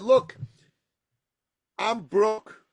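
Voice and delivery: retold energetic candour; passionate pitch. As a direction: lay it out with fire. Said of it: "with passion, with energy".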